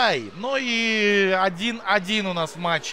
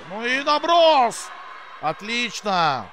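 excited; 3 semitones higher, slower than usual. Real, not acted. Shot on goal, commentator reacts.

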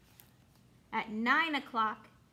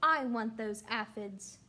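grouchy ladybug voice; 2 semitones lower, 4 dB louder, slower than usual. Acted. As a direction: growl it like a cranky bug. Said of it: "shouted the grouchy ladybug".

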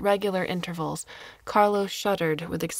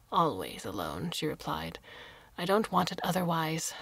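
a lightly voiced old woman, whispered; hushed old woman. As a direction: breathe the line like a frail recluse. Old woman answers about living alone.

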